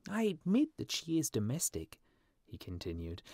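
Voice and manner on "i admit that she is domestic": high-pitched little bird character; complaining swallow. A narrator's reading. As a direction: grumble as a small lovelorn swallow. Swallow reasons about his love.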